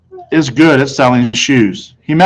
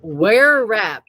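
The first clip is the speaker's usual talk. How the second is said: higher, soft question; salesman asking; 7 semitones higher, 5 dB quieter than usual. A narrator's reading. Salesman asking the mother, lightly voiced. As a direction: ask it briskly and politely. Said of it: "Mister Berman asked my mother".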